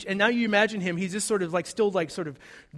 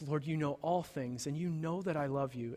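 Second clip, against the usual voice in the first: broken reply; 2 semitones lower, 8 dB quieter than usual. Acted. Broken Peter answers.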